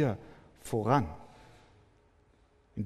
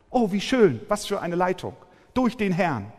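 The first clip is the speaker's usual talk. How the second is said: sarcastic; 5 semitones higher, 4 dB louder than usual. Retold or imitated. Preacher mocks caller's claim.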